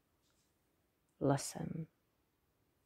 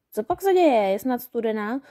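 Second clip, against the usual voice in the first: goblin teasing; 4 semitones higher, 5 dB louder than usual. A narrator's reading. Goblin asks after her squeal.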